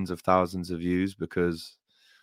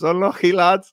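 mock Scouse call, higher and louder; Scouse accent; 11 semitones higher, 8 dB louder than usual. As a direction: imitate a Scouse fan shouting Unlucky lad. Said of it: "someone goes".

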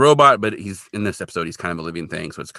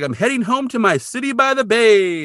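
high, gleeful mock announcement; happy; 13 semitones higher, 4 dB louder than usual. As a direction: imitate someone leaving in a great mood. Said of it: "he's happy".

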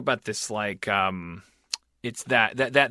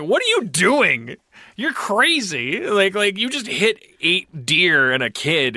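mock panicked yelling; 6 semitones higher, 4 dB louder, slower than usual. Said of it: "everyone's like".

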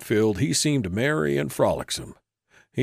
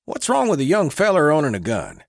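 smooth, higher, louder drifter patter; glib; 8 semitones higher, 4 dB louder than usual. A narrator's reading. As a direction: talk your way out easily. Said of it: "said Spunky glibly".

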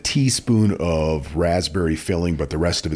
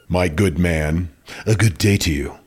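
mock haughty lady. Co-host playing a spinster dismissing a suitor, mock haughty. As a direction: sweep him off like a snooty Victorian lady.

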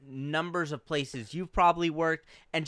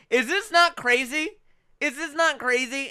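indignant customer; 10 semitones higher, 4 dB louder than usual. Retold or imitated. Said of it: "They're like".

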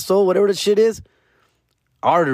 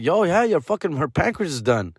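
doctor voice; 7 semitones higher than usual. Retold or imitated. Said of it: "they're like".

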